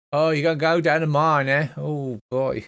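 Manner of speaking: put-on slow, easy, slight Australian accent. Voicing locals of the tabletop campaign world; Australian accent. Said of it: "they all talk with a bit of an Australian accent".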